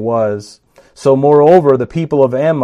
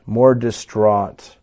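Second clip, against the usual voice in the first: drawn-out more distraught; slowed emphasis; 3 semitones lower, much slower than usual. Shown as a demonstration. Preacher lingers on despair, slow and heavy. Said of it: "repeated for emphasis".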